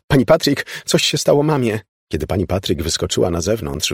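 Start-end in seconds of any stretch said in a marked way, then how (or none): 0.1-1.8 put-on high, urgent child's cry; calling out. A narrator's reading. Elizabeth calls for help for her mother, urgent calling. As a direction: call for help, voice raised. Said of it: "wołała".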